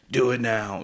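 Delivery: mildly forceful mock order; mock mean demand. To friends still learning, mock mean demand. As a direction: play at being mean, briefly. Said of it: "I'm not that mean person".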